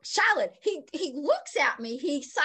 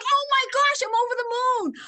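much higher and louder, elated exclamation; over the moon; 11 semitones higher, 6 dB louder than usual. Retold or imitated. Runner recalling respect from the men, elated and loud. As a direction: burst out with joy.

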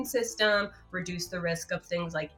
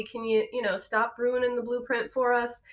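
higher-pitched, chummy character voice; quercetin as helpful buddy; 5 semitones higher than usual. Acted. Quercetin talking to free radicals, chummy and higher. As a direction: pitch it up like a helper addressing a pal. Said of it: "quercetin comes in and it's like".

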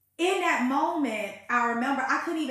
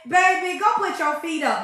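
put-on louder, higher: Baby, go put your feet up; mother's advice, preached; 6 semitones higher, 9 dB louder than usual. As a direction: belt the mother's words as a sermon line. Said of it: "She reminded me in that moment".

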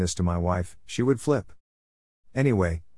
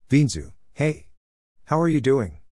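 bright, high and louder hello; excited greeting; 6 semitones higher, 3 dB louder than usual. A narrator's reading. Lady spotting an old classmate, excited greeting. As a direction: greet him like a happy surprise. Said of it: "said a lady excitedly".

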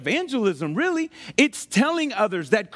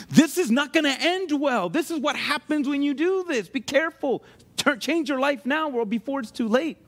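pleading warning in a raised pitch; higher-pitched, insistent caution; earnest warning; 4 semitones higher than usual. Acted. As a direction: urge someone to change course, voice lifted. Acts out warning a loved one.

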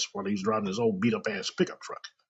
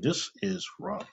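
Twilight Zone narrator. Retold or imitated. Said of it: "a singer to walk up".

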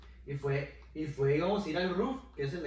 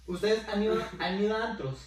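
podcast voice; 5 semitones higher than usual. Real, not acted. Asking friends about clubs in podcast-host voice. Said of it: "Pero habla con voz, no de podcast".

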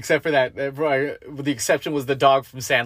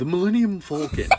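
a hint of movie-villain pronunciation, higher pitched; Darth Vader; 5 semitones higher than usual. Shown as a demonstration. Co-host teaches the proper way, light villain impression. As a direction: lightly put on a grand "Falcon", with a rounded first vowel. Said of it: "You gotta say it like frickin' Darth Vader".

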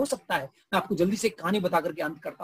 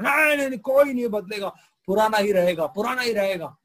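stubborn refusal; 3 dB louder than usual. Acted. Pharisees refusing change, acted.

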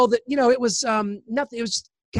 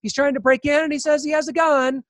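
lightly imitated nonchalant woman, higher; unhurried, pitched-up matter-of-fact tone; casual report; 5 semitones higher than usual. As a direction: mimic her casual phone manner. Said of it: "she just sort of casually tells him".

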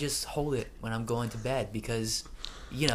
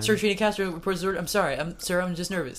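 mock nervous trainee; 5 semitones higher, 3 dB louder, faster than usual.

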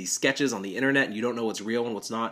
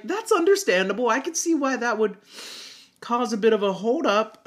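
higher, stiff polite voice for the upset passengers; formal polite voice; 11 semitones higher than usual. Retold or imitated. Driver to grieving passengers, stiffly polite voice. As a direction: play it overly formal and polite to ease the awkward moment. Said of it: "And I'm like".

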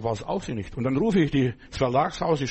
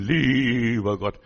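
mocking pious prayer; 4 dB louder, much slower than usual. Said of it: "Die reden".

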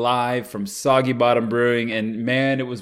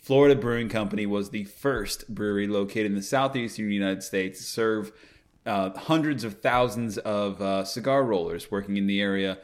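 measured, slightly lower and softer reading; historical read-out; 3 semitones lower, 5 dB quieter than usual. Real, not acted. Host telling listeners the brewery's history, measured reading voice. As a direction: read it evenly like a proclamation.

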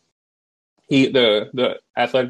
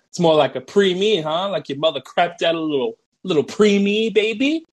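mocking coach; 5 semitones higher than usual. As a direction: taunt climbing higher to baby. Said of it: "He's like".

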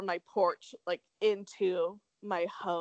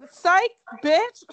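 loud, high taunting jeer; mocking taunt; 9 semitones higher, 9 dB louder than usual. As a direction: throw it like a taunt. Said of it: "it's just like".

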